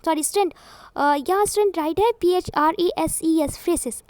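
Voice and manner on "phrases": phrases said as "FRAY-ses"; mispronounced phrases. Shown as a demonstration. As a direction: say phrases with hissing s sounds, no j. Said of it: "the correct pronunciation of this". (phrases को "फ्रेसेस" बोलते हुए)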